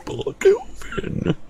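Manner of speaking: strained high robot try, slowed. Shown as a demonstration. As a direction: squeeze out a metallic robot voice. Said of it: "It doesn't work".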